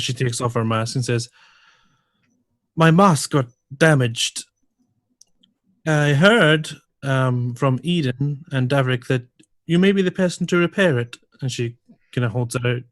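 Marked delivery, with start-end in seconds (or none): 2.8-11.2 speaking Dwarvish. Acted. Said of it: "Liara pipes up in Dwarvish".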